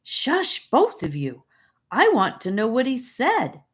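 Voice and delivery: high shush, then an insistent push; boy hushing his quarrelling friends, passionate. A narrator's reading. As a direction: demand the news, eager. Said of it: "Charlie said with passion".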